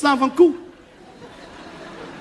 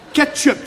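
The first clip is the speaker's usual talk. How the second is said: "Ketchup" said higher, both syllables firmly pronounced; emphatic correction; 4 semitones higher, 4 dB louder than usual. Acted. Customer corrects the restaurant owner, emphatic "Ketchup". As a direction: spell out "Ketchup" for someone not understanding. Repeats the word for clarity.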